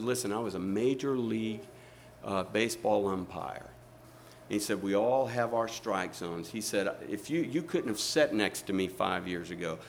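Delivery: low, soft retold testimony; sincere confession. Former umpire explaining his strike zone to seatmate, sincere. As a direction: confide it quietly and earnestly.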